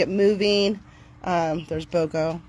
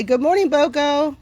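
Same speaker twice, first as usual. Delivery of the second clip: higher, sing-song good morning; cheery dog greeting; 6 semitones higher, 3 dB louder than usual. Shown as a demonstration. Greeting Bogo for viewers, high and cheerful. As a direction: greet the dog warmly and brightly.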